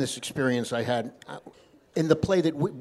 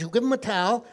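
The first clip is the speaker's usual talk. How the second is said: put-on higher-pitched rabbi confirming in a Yiddish accent; 6 semitones higher than usual. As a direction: insist with a Yiddish lilt. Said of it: "This is my Yiddish accent".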